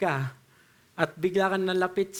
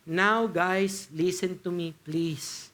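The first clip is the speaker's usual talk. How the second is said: gentle plea; much slower than usual. Retold or imitated. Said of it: "sinasabi ni Paul sa verse twenty-one".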